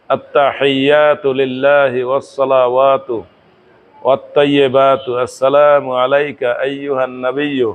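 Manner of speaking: slow, even reciting of the Arabic text; measured prayer recitation. Shown as a demonstration. Teacher reciting tashahhud for students, slow and measured. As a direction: recite it deliberately, word by word.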